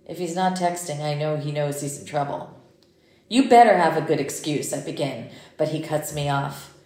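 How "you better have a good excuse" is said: loud stern warning; stern scolding. Acted. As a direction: scold him right away. Mother scolding late son.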